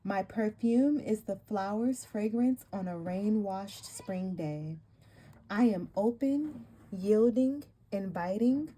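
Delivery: slow, solemn card reading; warm serene goddess voice. Acted. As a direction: read it like a sacred invocation. Reads goddess card text aloud.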